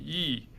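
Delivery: "一" as falling fourth tone yì. Shown as a demonstration. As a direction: drop "一" down, fourth tone. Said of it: "一 has three tones".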